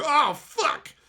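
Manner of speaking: high, loud fake girl gasp; hammed-up high girly curse; mock shocked anime girl. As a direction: squeal the swear in a cute voice.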